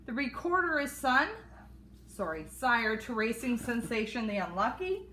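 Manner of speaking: breathless, running out of air; rushing the list, short of breath. Real, not acted. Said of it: "I gotta catch my breath".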